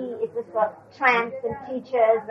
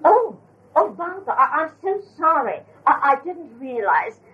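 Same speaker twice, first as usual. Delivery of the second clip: flustered apology. Retold or imitated. Delia apologizes flustered to Baba.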